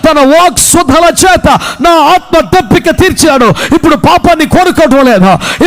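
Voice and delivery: full-force declaimed testimony, phrase after phrase; impassioned preaching testimony. Acted. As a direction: build it in driving, rhythmic sermon cadences.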